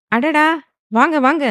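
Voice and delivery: high, loud delighted greeting; high-pitched hearty hello to guests; warm welcome. A narrator's reading.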